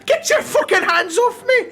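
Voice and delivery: put-on a furious old drunk shouting across the tavern; angry old drunk. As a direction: rage like a sore loser who lost his bet. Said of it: "He says".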